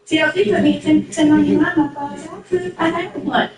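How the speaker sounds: real indignation, pitch up; indignant protest. Real, not acted. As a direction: insist she already had a job, rising. Arguing back on a talk show.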